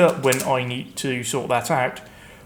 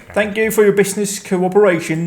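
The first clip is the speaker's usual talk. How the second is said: put-on Finnish accent; 5 semitones higher than usual. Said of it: "that's how people from Finland talk".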